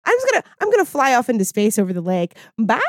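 cheeky villain tornado, fast at the end; voicing the tornado. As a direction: play the tornado mocking her. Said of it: "it was like".

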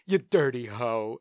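slow, lightly voiced animatronic character line; animatronic Cat in the Hat. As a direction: lightly imitate a ride animatronic, drawn out. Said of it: "watch him pick up an animatronic hoe and go".

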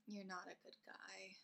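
quiet echo. Real, not acted. Agreeing with her friend, a soft echo. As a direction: echo it back softly, under the breath. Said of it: "echoing friend's line".

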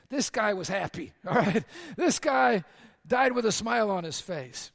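loud, laughing tombstone line. Real, not acted. Pastor telling the Lord his wish, laughing and loud. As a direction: belt it out through laughter.

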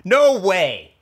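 loud, high outburst of surprise; amazed. Real, not acted. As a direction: burst out in real disbelief.

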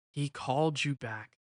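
soft smiling reassurance. A narrator's reading. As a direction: say it gently with a smile. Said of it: "Antonio smiled".

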